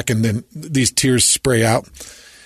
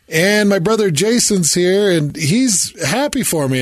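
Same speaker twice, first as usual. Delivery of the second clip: lightly mimicked, higher-pitched speech; upbeat higher voice for a retold quote; imitating happy brother; 6 semitones higher than usual. Retelling the brother's speech on stage, lightly imitated, higher. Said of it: "when he's like".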